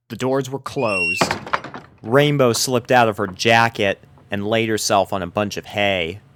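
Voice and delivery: ordinary delivery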